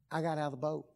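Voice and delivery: low, soft confiding; hushed brag. Acted. Peter telling John what he did, hushed brag.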